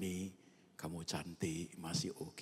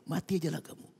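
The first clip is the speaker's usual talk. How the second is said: higher, louder sneer of a fed-up wife; mocking wife; 9 semitones higher, 5 dB louder, faster than usual. Wife scornfully telling her sick husband to just die. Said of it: "Istri yang ngomong begini".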